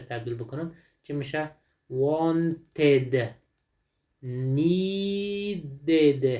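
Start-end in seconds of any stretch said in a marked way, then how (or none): 1.9-6.3 "wanted" and "needed" in two separated syllables. Shown as a demonstration. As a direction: stretch "needed" out to show the added -id.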